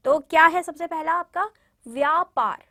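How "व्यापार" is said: व्यापार said slowly with half व joined to या; pronunciation demo. Shown as a demonstration. Teacher models व्यापार for class to repeat clearly. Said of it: "बोलिए मेरे साथ में बोलिए व्यापार".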